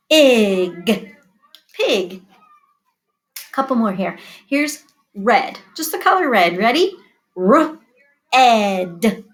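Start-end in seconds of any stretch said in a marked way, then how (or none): 0.1-1.1 P-ig with a break after p; sounded out. Shown as a demonstration. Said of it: "first sound green". 7.4-9.2 R-ed with a break after r; sounded out. Shown as a demonstration. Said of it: "first sound green".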